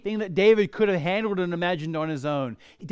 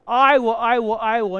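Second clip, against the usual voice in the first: emphatic declaration; 5 semitones higher, 9 dB louder than usual. Acted. Preacher voices God's promises.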